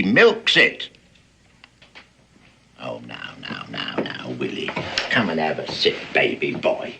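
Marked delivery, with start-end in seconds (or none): 2.8-6.9 put-on hushed, coaxing old sea dog. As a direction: gently lure him to sit and drink. Wheedling the frightened man.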